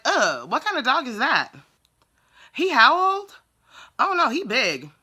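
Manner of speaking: high, loud stereotyped caricature voice; mocking caricature. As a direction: mimic the customer's insulting imitation of you. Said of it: "made me sound like the most stereotypical ghetto black person".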